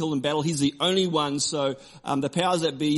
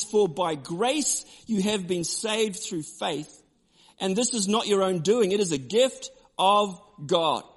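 scripture reading; 3 semitones higher, slower than usual. Acted.

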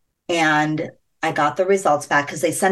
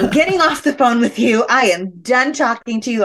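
higher-pitched mock indignation; retold exasperation; 5 semitones higher than usual. Wife ending call with husband, retold exasperation. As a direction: cut them off, playing up being fed up.

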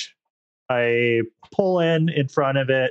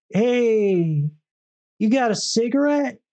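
higher mock voice for the bummer; imitating the stranger; 7 semitones higher, slower than usual. S0 mimics the guy begging a cigarette, pitched-up mock voice. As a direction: ask for a smoke in a pitched-up put-on voice.

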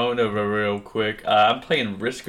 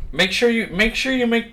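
high mock warning; 12 semitones higher, 4 dB louder than usual. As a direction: pitch up and drag it out. Joking warning about Andrew.

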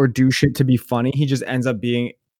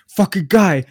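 imitated angry outburst, pitched up; seething; 6 semitones higher than usual. Friend back from buying chips, retold as seething. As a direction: act out a friend's seething complaint. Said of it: "he's angry as shit".

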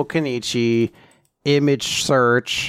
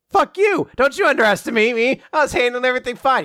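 furious shout; 9 semitones higher, faster than usual. Retold or imitated. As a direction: blast it back at her, offended. Character angrily snaps back.

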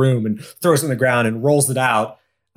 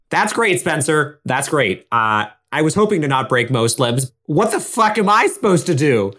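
sarcastic panic; 2 semitones higher than usual. Acted. Graham dangling, sarcastic panic.

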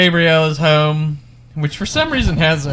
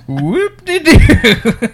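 high, slow laughing whoop; laughing sing-song; 11 semitones higher, 5 dB louder, much slower than usual. Real, not acted. Host laughs at the gore.

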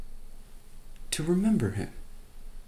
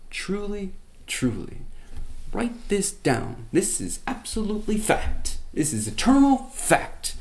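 high, loud solemn proclamation from the cross; a dying Jesus crying out his promise; 4 semitones higher, 3 dB louder than usual. Acted. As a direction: declare it as eternal truth, voice lifted high. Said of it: "He says".

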